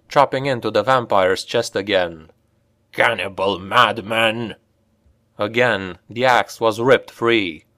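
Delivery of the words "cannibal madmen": dwarf voice cursing; a dwarf spitting a curse. Acted. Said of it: "Olgrin cursed".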